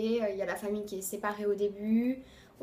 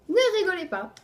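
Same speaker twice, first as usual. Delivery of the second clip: high, loud giggle through the words; giggling, embarrassed plea to viewers; laughing; 8 semitones higher, 6 dB louder than usual. Real, not acted. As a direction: laugh it out while begging them not to laugh. Laughing while showing snack.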